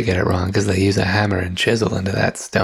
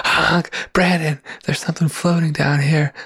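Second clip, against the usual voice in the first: silly goose voice; 7 semitones higher than usual. Pretend. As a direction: call out like a goofy goose. Honking, calling from the well.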